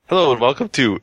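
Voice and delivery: podcast intro. Real, not acted. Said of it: "this is a regular intro".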